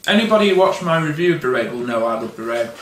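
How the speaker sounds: talking around a pretzel; mouth full. Real, not acted. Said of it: "So I got a pretzel in my mouth".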